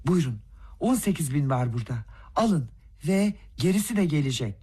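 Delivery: insolent. Acted. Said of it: "küstah bir tavır takındı".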